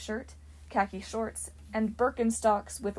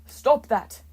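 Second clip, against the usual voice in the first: loud, high, furious order; a god ordering the boy to stop; demanding shout; 4 semitones higher, 11 dB louder than usual. A narrator's reading. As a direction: snap out the command loudly. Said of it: "he demanded".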